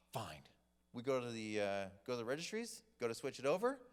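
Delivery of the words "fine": low, deflated "fine"; defeated, reluctant agreement; grudging acceptance. Retold or imitated. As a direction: give in reluctantly, voice dropped low. Seller grudgingly gives in.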